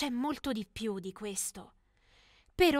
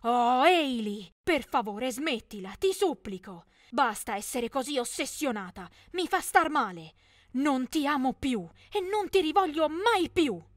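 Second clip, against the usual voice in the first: yelling; 4 dB louder than usual. Acted. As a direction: yell at her to stop, exasperated. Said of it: "Logan mi urlò". (urlo esasperato e supplichevole)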